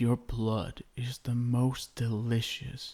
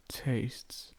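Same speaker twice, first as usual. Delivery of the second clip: whispered; 2 semitones higher, 6 dB quieter than usual. Acted. Tasting her neck.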